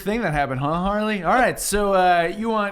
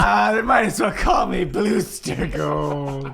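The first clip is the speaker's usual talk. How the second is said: laughing mock lament. Player mocks misnamed character.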